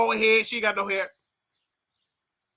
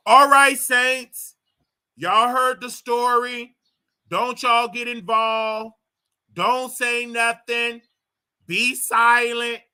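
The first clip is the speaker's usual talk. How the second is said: mock preacher; 3 dB louder, slower than usual. Mock preacher addressing the church.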